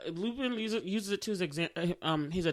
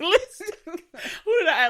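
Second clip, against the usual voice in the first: laughing; 9 semitones higher, 7 dB louder, much slower than usual. Real, not acted. Laughing while listing her crushes.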